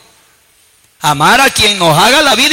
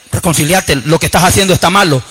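lowered inner voice, urging; lightly voiced soul giving a warning; pleading soul; 5 semitones lower than usual. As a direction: urge them from within, pitched low. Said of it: "Y el alma dice".

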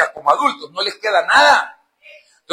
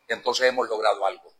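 quiet; 7 semitones lower, 6 dB quieter than usual. Real, not acted. Quiet take before loud repeat.

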